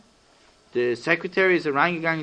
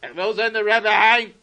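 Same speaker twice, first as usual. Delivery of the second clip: high, urgent begging; desperate plea; 8 semitones higher than usual. Acted. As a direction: beg as if life depends on it. Berel pleads desperately to see Rebbe.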